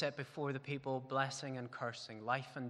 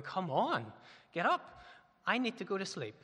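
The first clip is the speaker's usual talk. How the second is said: exasperated plea; 5 semitones higher, 3 dB louder than usual. Retold or imitated. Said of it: "I'm looking at my wife and going".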